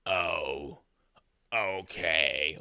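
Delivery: dazed drawn-out okay; weird meth voice. Retold or imitated. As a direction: sound far away and unbothered. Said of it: "maybe I exaggerated her voice".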